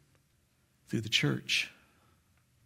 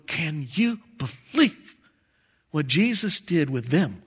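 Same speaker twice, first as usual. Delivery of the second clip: amazed disbelief. Acted. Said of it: "we're gonna be going".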